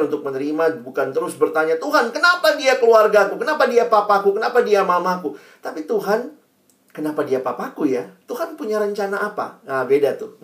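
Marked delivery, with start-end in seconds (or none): 1.8-5.4 high, louder complaining why to God. Retold or imitated. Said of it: "Nadanya udah beda". 5.9-9.6 softer, humble asking of God. Retold or imitated. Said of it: "Nadanya udah beda".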